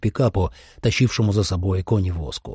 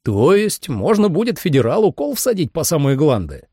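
eager, higher-pitched question; suspiciously lively; 6 semitones higher than usual. A narrator's reading. Sam asks about staking a fed, suspiciously lively. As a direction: ask with a little too much relish. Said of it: "спросил Сэм подозрительно живо".

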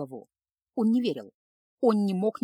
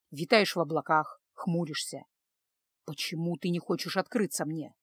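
lower, softer man's voice, firm and serious; stern worried husband; 4 semitones lower, 4 dB quieter than usual. A narrator's reading. Husband urging his wife to confide, low and firm. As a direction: press her gently but firmly to confide. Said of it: "Сдвинув брови, спросил Илья".

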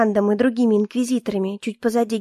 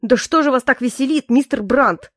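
irritated. Acted. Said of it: "В голосе генерала послышалось явное раздражение".

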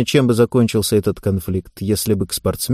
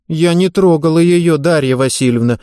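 offended whine; 5 semitones higher than usual. Acted. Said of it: "обиженно прогнусавила девушка".

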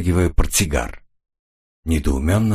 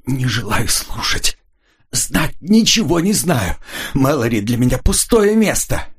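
incoherent cries; 5 semitones higher than usual. Acted. Rita panicking, refusing to hear about the murder, crying out. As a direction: fling the words out in panic. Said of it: "бессвязно выкрикивая".

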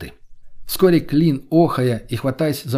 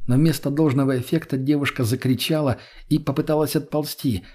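plain reading voice

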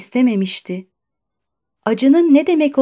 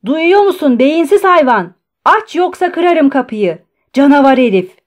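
loud, high-pitched angry threats; furious shouting; 5 semitones higher, 7 dB louder than usual. A narrator's reading. Patient pounding the door at the guard, furious shouting. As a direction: shout abuse through a door. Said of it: "kapıyı yumruklayarak bağırdı".

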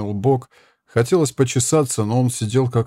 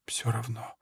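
unvoiced, much softer; whisper; 13 dB quieter than usual. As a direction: breathe the words out weakly. Dying woman speaks faintly. (умирающая шепчет наёмнику: слабый шёпот)

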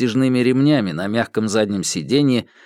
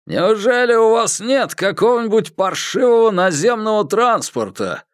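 yelling over helicopter; 11 semitones higher than usual. A narrator's reading. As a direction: shout to be heard over blades. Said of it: "проорал он сквозь шум лопастей".

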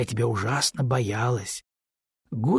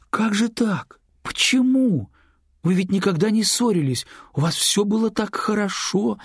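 shocked disbelief; 8 semitones higher than usual. A narrator's reading. Lyuba asks her old friend why, high with shock. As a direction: climb up in stunned dismay.

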